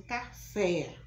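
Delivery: café loud, final é open. Shown as a demonstration. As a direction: show café's open é. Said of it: "o som é aberto". (café com é aberto)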